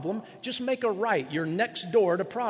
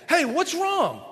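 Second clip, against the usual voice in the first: concerned partner; 10 semitones higher, 4 dB louder, slower than usual. Retold or imitated. Partner asks what's wrong.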